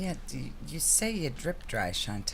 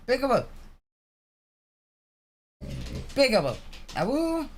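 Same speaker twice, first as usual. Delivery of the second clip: howling like a wolf pup; 7 semitones higher than usual. Pretend. Coaxing the dog to howl.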